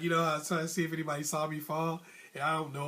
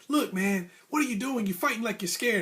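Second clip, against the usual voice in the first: higher-pitched exasperated challenge; scolding coach; 5 semitones higher than usual. Retold or imitated. Coach to timid boxer between rounds, exasperated and high. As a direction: lightly mimic a coach telling off his fighter.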